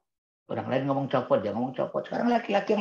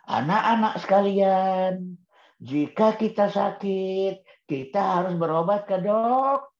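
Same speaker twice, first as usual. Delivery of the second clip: slow, sing-song teacher cadence; imitating a primary teacher; 3 semitones higher, slower than usual. Primary teacher coaxing pupils to finish the word, slow sing-song. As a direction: lead the class like a schoolteacher coaxing the answer. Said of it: "Guru-guru S D sering itu menggunakan itu".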